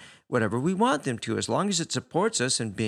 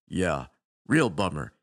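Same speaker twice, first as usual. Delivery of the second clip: glum; 7 semitones lower than usual. A narrator's reading. Alien answers glumly.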